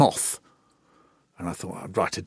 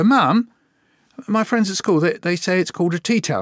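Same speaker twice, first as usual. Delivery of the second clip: higher and louder, lightly voiced boy; a hint of a little boy telling mum; child calling mum; 8 semitones higher, 3 dB louder than usual. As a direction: report home like an eager kid.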